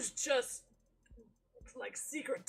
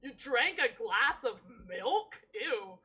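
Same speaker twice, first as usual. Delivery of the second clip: louder, mock-grossed-out ew; playful disgust; 7 dB louder than usual. Real, not acted. Streamer grossed out by the milk, playful disgust. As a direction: tease the character for the milk.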